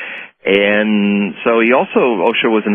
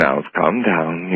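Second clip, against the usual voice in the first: slow, soft, lower soothing; calming; 3 semitones lower, 3 dB quieter, slower than usual. Retold or imitated. Guru calms the panicking dentist, slow and soothing. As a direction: settle the panicking dentist down slowly. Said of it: "and he said".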